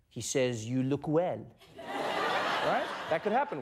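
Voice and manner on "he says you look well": put-on French accent, very low and drawn out. Imagining a translator relaying a compliment, in a put-on French accent. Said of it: "(with French accent)".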